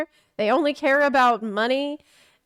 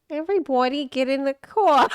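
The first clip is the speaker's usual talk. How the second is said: goblin voice. Shown as a demonstration. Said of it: "how do you do a goblin voice".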